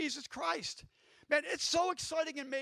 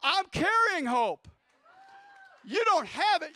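shouted proclamation; 7 semitones higher, 8 dB louder, slower than usual. Acted. Preacher shouting to congregation.

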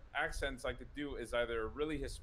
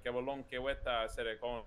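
put-on thick Hispanic accent; 3 semitones lower than usual. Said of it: "your really thick Hispanic accent".

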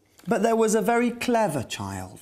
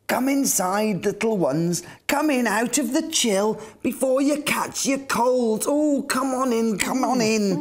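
fussing Captain Weezer; 4 semitones higher than usual. Acted. Captain Weezer greets the bunnies.

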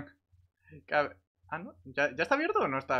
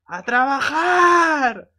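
much higher, louder, long drawn-out yell; mock foreman shout; 13 semitones higher, 13 dB louder, much slower than usual. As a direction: bellow it at the crew like a foreman. Gritando a todos que trabajen. (grito alargado de capataz a la gente)

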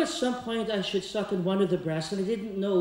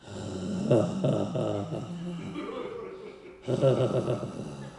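imitated moan; 9 semitones lower than usual. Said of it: "Maria made a sound".

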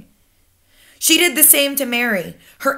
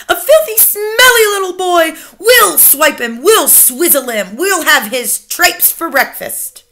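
higher, louder witchy cackle-voice, slowing down; gloating witches; 7 semitones higher, 6 dB louder than usual. Acted. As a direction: savour every nasty word like a hungry witch. Witches gloating over the boy.

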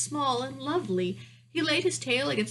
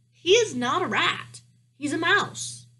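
high, louder insistent correction; protesting princess; 8 semitones higher, 6 dB louder, slower than usual. A narrator's reading. Princess defends the mouse to her father, high and protesting.

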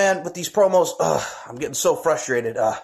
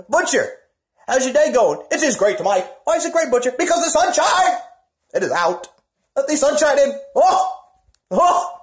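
silly high voice; 8 semitones higher than usual. Pretend. Two wrestlers clowning about the sunshine, high and silly. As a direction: play it goofy and bright.

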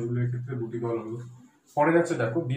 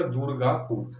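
"দুর্গাপুর" lightly divided as দুর-গা-পুর; syllable by syllable; slower than usual. Shown as a demonstration. Teacher showing how we pronounce দুর্গাপুর, syllable by syllable. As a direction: let small breaks show in "দুর্গাপুর". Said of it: "উচ্চারণ করছি কি আমরা".

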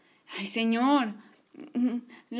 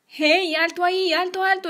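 shouting stop; 6 semitones higher, 4 dB louder than usual. Acted. Spotting the villain's house.

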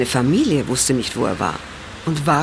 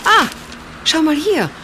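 excited; 12 semitones higher than usual. Acted. Excited find in the paper.

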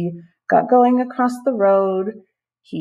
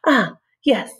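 whispered aside; 5 semitones higher, 3 dB louder than usual. Acted. Snail recalls his goal.

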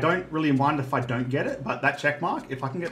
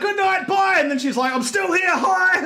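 mimicking friend; 4 dB louder than usual. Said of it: "Every time she's like".

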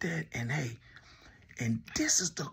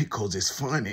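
laughing; 5 semitones lower, 4 dB louder than usual. Real, not acted. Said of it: "Why I'm laughing?".

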